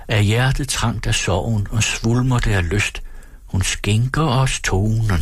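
slow, measured verse recitation; sangtekst læst op. A narrator's reading. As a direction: recite the anthem verse, drawing out the lines. Reads the mother's song verse. (langsom, højtidelig oplæsning af sangvers)

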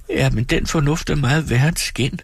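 høj, fortvivlet klage. Acted. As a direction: jamr dig over fornuften. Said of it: "udbrød Dora fortvivlet". (Dora klager fortvivlet til sin mand)

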